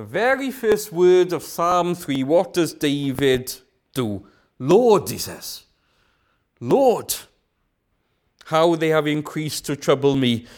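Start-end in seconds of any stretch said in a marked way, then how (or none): 4.6-5.1 crying out. Acted. Voicing David's cry. 6.6-10.5 crying out. Acted. Voicing David's cry.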